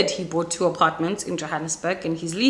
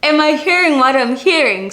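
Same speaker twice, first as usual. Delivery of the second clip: incredulous man; 6 semitones higher, 7 dB louder than usual. Retold or imitated. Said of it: "He's just like".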